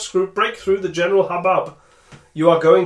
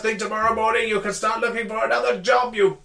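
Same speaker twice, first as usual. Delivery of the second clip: booming male voice; 2 semitones higher than usual. Acted. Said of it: "he yells".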